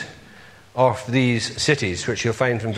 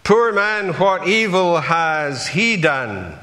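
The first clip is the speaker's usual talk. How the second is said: a troubled onlooker at the cross, pleading and raised; imagined bystander at the cross; 5 semitones higher than usual. Pretend. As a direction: voice a puzzled passer-by at Calvary. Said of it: "you would say".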